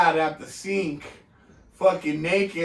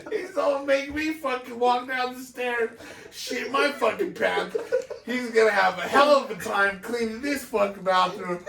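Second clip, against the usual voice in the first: laughing while talking; 5 semitones higher than usual. Real, not acted. Still laughing retelling story.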